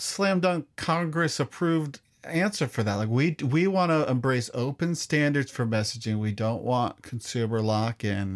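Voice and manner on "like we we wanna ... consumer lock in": lightly nasal nerd voice, lower; a hint of a corporate nerd. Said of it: "did you just make the nerd voice".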